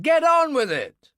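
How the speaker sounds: high, loud, slow angry yell; crowd shout. A narrator's reading. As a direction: bellow it at the manager. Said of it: "People in the crowd shouted".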